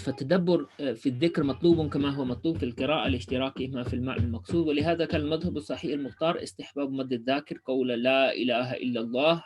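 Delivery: formal text reading; reading Arabic text aloud. Acted. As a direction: read the Arabic passage straight through, quickly. Reads the Arabic source text.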